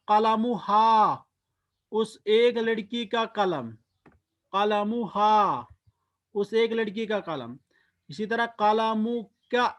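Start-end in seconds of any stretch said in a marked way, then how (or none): 0.1-1.2 कलमुहा drawn out slowly, syllable by syllable; slow demo. Shown as a demonstration. Teacher modelling the Arabic word slowly for students. 4.5-5.7 कलमुहा drawn out slowly, syllable by syllable; slow demo. Shown as a demonstration. Teacher modelling the Arabic word slowly for students.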